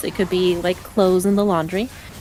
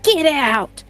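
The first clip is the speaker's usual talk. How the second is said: imitating mom yelling; 8 semitones higher, much slower than usual. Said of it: "just be like".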